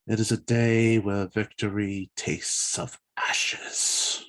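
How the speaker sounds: slow, hushed, fading to a whisper. Acted. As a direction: let the loss drain the voice. Darrow grieving his dead people.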